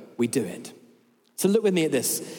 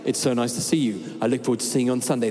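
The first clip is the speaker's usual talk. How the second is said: flat edited email; 6 semitones lower than usual. Retold or imitated. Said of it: "And I read it, it's like".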